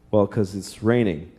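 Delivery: put-on low, slow explanation to a child; acted patient father answering; patient dad. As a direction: explain it simply and calmly.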